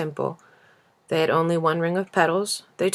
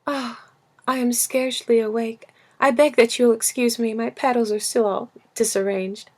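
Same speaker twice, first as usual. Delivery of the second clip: yawning; 5 semitones higher than usual. Acted. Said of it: "she yawned and said".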